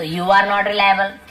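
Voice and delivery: each word said slowly and clearly for learners; slow model sentence. Shown as a demonstration. Teacher slowly models the sentence for Hindi learners. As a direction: spell it out slowly so students can copy. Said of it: "teacher models the sentence slowly".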